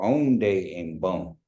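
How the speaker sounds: "onde en bon" said very slowly; slow model. Shown as a demonstration. Teacher demos the short greeting slowly. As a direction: draw each word out for learners. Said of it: "you can just say".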